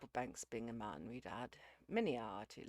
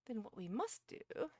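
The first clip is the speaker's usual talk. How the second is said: high, hearty, raised voice; jovial; 8 semitones higher, 6 dB louder than usual. A narrator's reading. Uckridge proposes a way round dinner, jovial. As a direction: launch a cheery plan. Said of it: "said Uckridge in a jovial manner".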